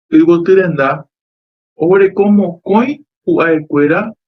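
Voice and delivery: yvoty renda with both stressed syllables, ty and da, clearly marked; stressed example words. Shown as a demonstration. Teacher showing students the two stresses in yvoty renda. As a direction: sound out yvoty renda, leaning on ty and on da. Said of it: "hyapu hatãva".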